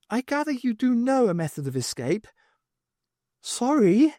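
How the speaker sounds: lightly voiced alien. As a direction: state it like a strange being. Alien speaks.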